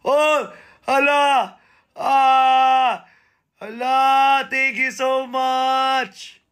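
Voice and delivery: high, startled cry then slow thanks; surprised thanks. Real, not acted. Thanking a viewer for a gift on the live stream, in a high, surprised voice. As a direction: gasp with delight at the gift.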